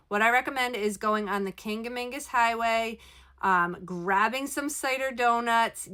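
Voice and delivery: small room echo inside a trailer; speaking inside a small RV; recorded in an RV. Real, not acted. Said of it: "I am recording from my R V".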